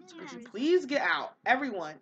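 loud, pushy plea to leave; voicing Delilah. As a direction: play the annoyed little sister ordering guests out. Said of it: "Delilah's like".

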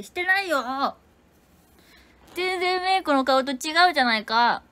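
put-on high, loud anime-girl voice. Shown as a demonstration. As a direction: exclaim it like an anime heroine. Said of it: "アニメ声で言ってみた".

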